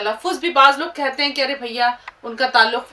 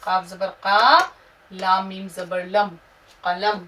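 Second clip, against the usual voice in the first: slow spelling out; 3 semitones lower, 3 dB louder, slower than usual. Shown as a demonstration. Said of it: "कलम देखिए".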